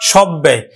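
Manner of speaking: সব ব্যয় with falling tune and double b; doubled b. Shown as a demonstration. Teacher confirming the pronunciation, doubled b in সব ব্যয়. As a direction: model সব ব্যয় with a held b. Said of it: "উচ্চারণ হলো".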